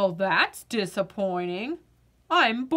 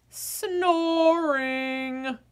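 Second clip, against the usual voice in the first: bored potato; 3 semitones higher than usual. Acted. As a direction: sound like a vegetable with no fun left. Potato mocks fairy princess.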